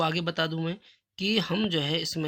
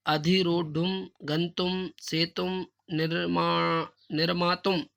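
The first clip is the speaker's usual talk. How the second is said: slow recitation; much slower than usual. Shown as a demonstration. Teacher reads word list.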